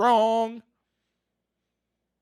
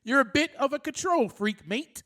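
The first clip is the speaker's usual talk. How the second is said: bad English accent; 3 semitones higher than usual. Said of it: "That's my, uh, English accent".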